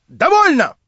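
второе «Довольно!» намного выше и громче; сорваться на крик; срыв на крик. Acted. Инженер выбегает в волнении. («Довольно!» выкрикнуть высоко и отчаянно)

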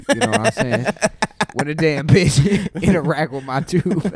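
put-on giggly drunk. Loopy laughing bit.

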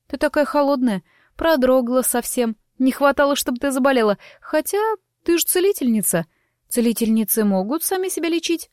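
a lively gossip, light and quick; chatty young woman. Acted. Narrator voices chatty Lima.

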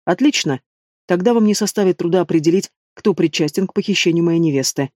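plain reading voice

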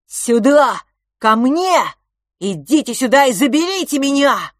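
high loud calling; boy shouting into the fog for them to take him. Acted. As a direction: call out to the voices far away. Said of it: "прокричал в туман".

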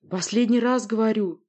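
furious prince roaring; roaring demand. Acted. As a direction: bellow the final warning. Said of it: "взревел он".

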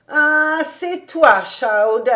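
loud, high, drawn-out greeting; delighted exclamation. A narrator's reading. Old rabbi greets his visiting friend, exclaiming with joy.

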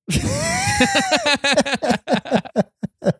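high-pitched shrieking laugh; Ive shriek. Retold or imitated. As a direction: let out a piercing celebrity shriek. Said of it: "Ive do Big Brother".

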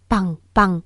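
two short, separated bangs; spoken gunshots. A narrator's reading. Two shots ring out as uncle fires, spoken gunshot sounds. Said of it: "Hai tiếng súng giòn giã vang lên".

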